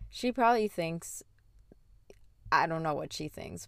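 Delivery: a quick hushed whisper. Real, not acted. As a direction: drop to a whisper for the aside. Aside about what mom thinks.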